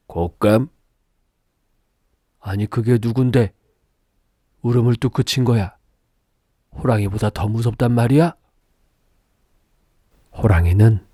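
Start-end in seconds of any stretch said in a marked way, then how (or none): 0.1-8.4 a hint of a baffled tiger, quickening; bewildered tiger. Tiger puzzling over the scary persimmon, bewildered. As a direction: wonder aloud like a confused tiger.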